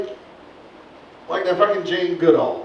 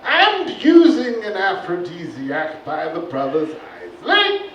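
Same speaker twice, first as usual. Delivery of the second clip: posh wildlife narrator; nature documentary. Acted. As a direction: narrate like a stuffy presenter. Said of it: "Sir Reginald Hollow".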